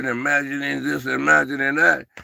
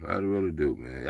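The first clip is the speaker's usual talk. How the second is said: emotional; 8 semitones lower, 7 dB quieter than usual. Real, not acted. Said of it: "I'm getting a little emotional".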